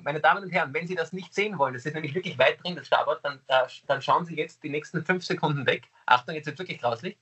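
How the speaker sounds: TV warning announcement, formal; announcer voice. Acted. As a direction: warn viewers like a broadcaster. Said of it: "das ist ein, wie eine Einblendung".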